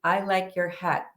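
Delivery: uninflected, matter-of-fact retelling; no inflection. Retold or imitated. Woman repeating her remark to the anesthesiologist, no inflection. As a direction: drop it out evenly, no emphasis. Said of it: "with no inflection".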